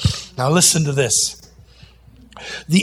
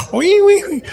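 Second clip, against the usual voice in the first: high, loud wee-wee-wee squeal; piggy squeal; 13 semitones higher, 3 dB louder than usual. Pretend. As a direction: squeal like a little pig. Pig squeal ending the rhyme.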